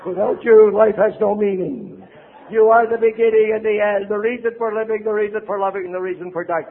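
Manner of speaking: over-the-top romantic vow, milked; hammed-up love declaration. Addict swearing eternal love to partner, hammed up.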